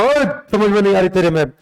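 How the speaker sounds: quick, mock-harsh filmi ruler snapping at a subject; a lightly hammed-up Bollywood tough guy, rattled off fast; filmi tough talk. Teacher showing how a Rajput king talked harshly, in quick mock filmi style. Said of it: "थोड़ा सा फिल्मी style में".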